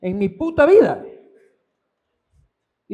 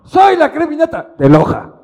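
mock snob; 5 semitones higher, 8 dB louder than usual. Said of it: "es como".

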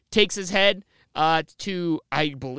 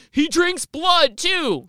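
higher, loud, slow exclamation; shocked monk; 9 semitones higher, 4 dB louder, much slower than usual. Retold or imitated. Monk shocked seeing Vlad dip bread in blood. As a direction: gasp it out in alarm. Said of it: "they're like".

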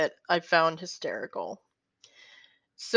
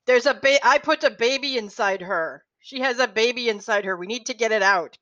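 put-on Borat-style Kazakh accent, a bit raised; heavy Kazakh accent, pitched up; 3 semitones higher than usual. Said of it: "they go in with their Kazakhstan accent".

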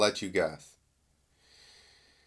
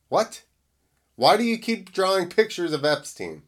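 reading in disbelief; 4 semitones higher than usual. Real, not acted. Reacting to repeated Epstein drawings.

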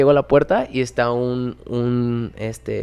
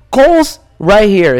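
slow, louder mock doorwoman; imitating the doorwoman; 6 semitones higher, 10 dB louder, much slower than usual. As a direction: point it out slowly to a stranger. Imita a la cadenera señalando. (cadenera imitada, lenta y fuerte)

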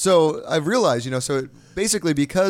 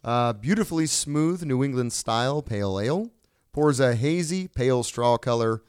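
sultry read. Acted. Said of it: "let me speak into your ear".

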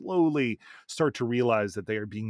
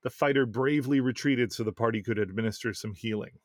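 reading aloud. Acted. Reads a listener's game story.

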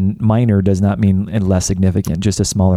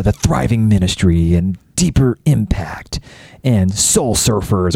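whisper; 3 semitones lower, slower than usual. Pretend. Mocking hokey youth group names.

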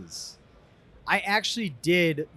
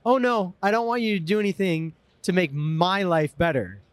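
Minnesota Nice. Retold or imitated. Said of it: "Minnesota Nice would be like".

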